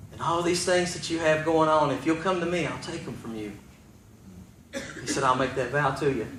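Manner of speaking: soft voice sinking at the end; hushed promise. Retold or imitated. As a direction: let the promise drop almost to nothing. God's promise, retold softly.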